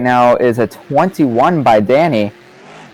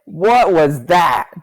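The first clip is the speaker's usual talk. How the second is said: surprised; 7 semitones higher, slower than usual. Real, not acted. Commentator reacts to wild ending.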